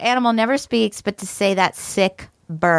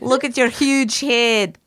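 mock Scottish jibe; Scottish movie impression; 3 semitones higher than usual. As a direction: heckle in a put-on Scottish accent. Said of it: "Molly's now referencing, uh, So I Married an Ex-Murderer".

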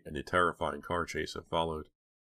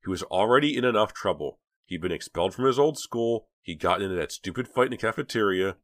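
louder, higher argument; exasperated insistence; 5 semitones higher, 6 dB louder than usual. A narrator's reading. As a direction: argue the case heatedly. Dina's exasperated argument continues.

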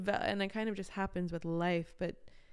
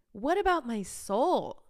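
higher, louder, slow melodramatic wail; mock dramatic outcry; 5 semitones higher, 8 dB louder, slower than usual. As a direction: ham up the anguish.

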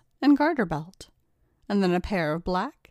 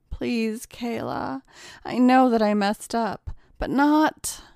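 pleading; 4 semitones higher, slower than usual. Acted. Ryan pleads with blackmailer.

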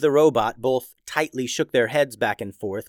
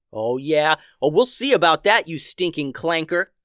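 a touch of a raised yell; 3 semitones higher than usual. Acted. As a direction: snap back at the robot. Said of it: "yelled Simon".

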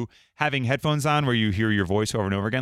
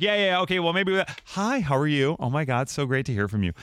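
imitating wife's phone voice. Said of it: "she has a whole phone voice".

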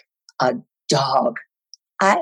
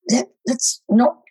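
whispered slowly, unvoiced; hushed whisper; 6 semitones higher, slower than usual. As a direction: breathe it like a dreaded secret. Director whispers verdict.

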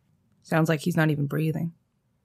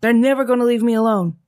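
loud, higher, desperate; anguished outcry; 5 semitones higher, 6 dB louder than usual. Acted. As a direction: cry out that they won't stop. Jack cries out his fear.

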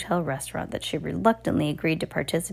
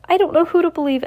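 high, loud scornful sneer; 11 semitones higher, 6 dB louder, faster than usual. A narrator's reading. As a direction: sneer it with contempt. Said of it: "Esme said scornfully".

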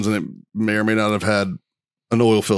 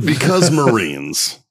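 slowly, each word drawn out; slow punchline blaming the Marines; slow emphatic; much slower than usual. Real, not acted. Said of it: "That's why".

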